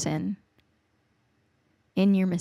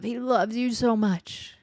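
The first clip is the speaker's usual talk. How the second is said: slow, tender, voiced and sincere; 4 semitones higher, slower than usual. Real, not acted. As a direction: lean in and say it slowly, full voice. Repeated line, voiced then whispered.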